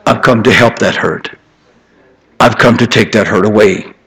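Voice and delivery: soft, gentle promise of healing; tender God's voice. Retold or imitated. God speaking to the one who wronged him, softly tender. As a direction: offer comfort like a loving father. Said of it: "he said".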